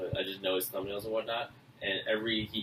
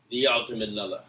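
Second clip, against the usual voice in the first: louder mock Arnie accent; 5 dB louder than usual. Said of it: "that's an Arnie accent".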